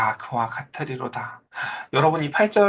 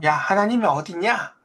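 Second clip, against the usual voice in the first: mildly jeering quote, pitched up; mock taunting; 4 semitones higher than usual. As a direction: imitate a mocker's challenge, higher voice. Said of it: "뭐라고 조롱을 해요?". (살짝 높여 조롱하듯 흉내 내기)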